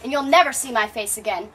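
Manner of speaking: loud, rising defiance; defiant shout. Acted. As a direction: stand up to the king, loudly. Haemon defies his father.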